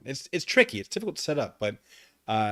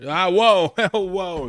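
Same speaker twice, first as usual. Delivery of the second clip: surprised whoa; 8 semitones higher, 12 dB louder, much slower than usual. Real, not acted. Reacts to chat joke.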